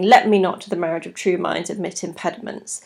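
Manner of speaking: a purposeful, important message, lightly performed; purposeful declaration. Acted. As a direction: announce it as if walking into the room with news. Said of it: "as if they're coming into the room saying".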